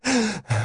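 wheezing gasp. A narrator's reading.

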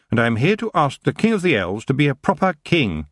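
high, firm reply; young witch. A narrator's reading. Tiffany answering the elf king, high and firm. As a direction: answer proudly.

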